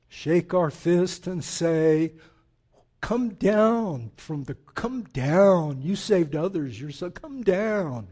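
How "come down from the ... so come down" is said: slow, drawn-out mocking taunt; dripping mockery. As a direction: jeer it, stretching out "down". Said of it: "the dripping mockery".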